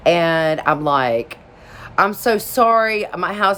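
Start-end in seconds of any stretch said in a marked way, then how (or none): 2.0-3.6 higher-pitched, imitated weepy apology; retold sobbing sorry, voice pitched up; tearful apology. Apologizing to the plumber about the house, imitated tearful apology. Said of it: "'cause I'm apologizing".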